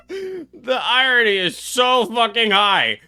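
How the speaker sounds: words squeezed out through laughter; laughing. Real, not acted. Streamer laughing at the game's irony. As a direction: laugh while you say it.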